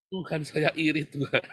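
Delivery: confessing through a laugh; half-laughing admission to God; laughing prayer. Retold or imitated. Preacher quoting his envious prayer, laughing.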